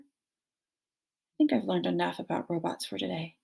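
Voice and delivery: soft, tired whisper; whispered reply. Acted. Gosling whispering back to his mother, softly. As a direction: breathe it back into her ear. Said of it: "he whispered back".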